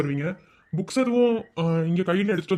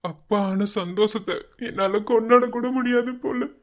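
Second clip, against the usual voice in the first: slow, higher, emotional voice; choked-up joy; 4 semitones higher than usual. Acted. New father confides in his friend, choked-up joy. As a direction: struggle to voice a happiness too big.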